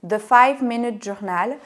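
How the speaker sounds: English title in a strong French accent, slowed. Real, not acted. Recommending a journal to viewers, English title in French accent. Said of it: "désolée pour mon accent anglais".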